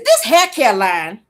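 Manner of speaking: very slow mimicry of a laboured reader; mock someone breaking each word down; stilted teleprompter read, drawn out; sounding out words. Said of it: "trying to break her words down".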